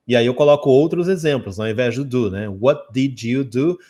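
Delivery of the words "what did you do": "What did you do" very slowly, word by word; careful rising "What did you do"; full slow form. Shown as a demonstration. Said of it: "A gente lê desse jeito".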